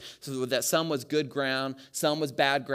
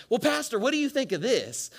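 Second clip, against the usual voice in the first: mock sweet wife; 11 semitones higher, 6 dB louder than usual. Mimicking wife's question.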